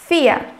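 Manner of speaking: vier with an F sound at the start, "fir"; teaching pronunciation. Shown as a demonstration. Teacher models vier with F for students. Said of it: "o V tem som de F".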